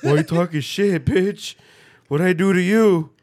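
loud laughing mock rant; hammed-up loud indignation through laughter; loud laughing imitation of his friend's outrage; mock angry outburst. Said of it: "you're just like".

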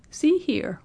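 put-on high, abrupt old man; sudden announcement. A narrator's reading. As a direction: break in suddenly. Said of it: "the old man announced suddenly".

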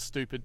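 "stupid" said as "stoopid"; Americanised pronunciation. Retold or imitated. Host quotes a friend's way, "stupid" as "stoopid". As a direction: drop the y-glide in "stupid", "stoopid". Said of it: "Buddy Watson also says".

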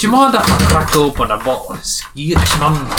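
put-on slipped into a Scottish accent; a hint of Scottish accent. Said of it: "That was a Scottish one".

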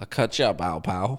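light Cockney villain impression; a hint of Cockney menace; the Hitcher. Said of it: "The Hitcher's a Cockney".

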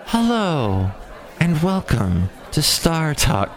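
a hint of a slow radio host; lightly voiced slow "welcome to Star Talk"; imitating the host. Previewing the Star Talk host, lightly voiced and slow. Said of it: "and it's this woman".

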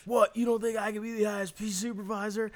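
high, loud indignant voice; indignant dopey guy. Retold or imitated. Retarded supervisor protesting to the workers, indignant and high. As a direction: play the dim guy taking offence. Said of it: "And he's like".

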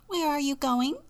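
high chick voice; high-pitched curious chick; little chick. Acted. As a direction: ask it as a tiny chick. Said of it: "asked the chick".

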